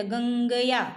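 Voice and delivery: "गंगया" sounded out, nasal ŋ held; nasal pronunciation demo. Shown as a demonstration. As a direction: show the nose's part in "गंगया". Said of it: "तालु और नासिका दोनों से संपर्क".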